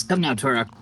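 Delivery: put-on light character accent for Albert; Albert's accent. Game master as Albert urging Torok along, in a slight put-on accent. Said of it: "sorry, I forgot Albert's accent".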